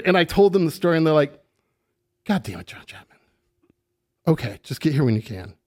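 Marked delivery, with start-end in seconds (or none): 2.2-5.5 exasperated boss. Retold or imitated. Boss answering late-call.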